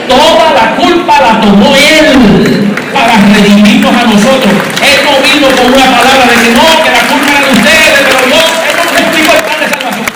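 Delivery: high, loud pulpit delivery; fervent sermon climax; full-force preaching. Acted. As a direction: drive it home to the congregation.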